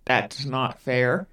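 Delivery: slow, low sulky whine, lightly imitated; sulky catchphrase. Teen girl to stepmother, mock sulky slow whine. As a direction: drag it out like a pouting teen. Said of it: "That's a very recurring saying she says".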